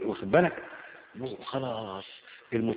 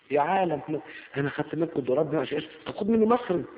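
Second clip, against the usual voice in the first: exasperated plea; faster than usual. Retold or imitated. Debtor pleading with the bank.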